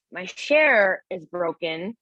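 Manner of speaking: slow, with "share" said for chair; grandma's mispronunciation. Retold or imitated. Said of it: "and she says".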